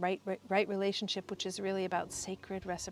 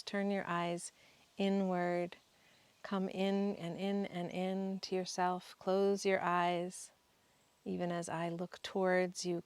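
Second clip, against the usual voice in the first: guided meditation. Real, not acted. Guide leading listeners to find the sacred place inside, guided meditation. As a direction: guide them inward, lingering on words and pausing for breath.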